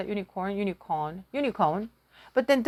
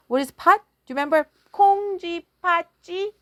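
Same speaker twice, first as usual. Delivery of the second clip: quick question; 7 semitones higher, much faster than usual. Real, not acted. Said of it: "quiz question to listeners".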